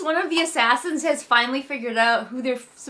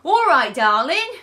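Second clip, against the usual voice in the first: loud, higher put-on character accent; silly Tobias accent; 4 semitones higher, 7 dB louder than usual. Shown as a demonstration. Tobias calls Layla darling, in a silly put-on accent. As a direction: ham up a silly accent on an endearment. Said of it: "with my silly Tobias accent".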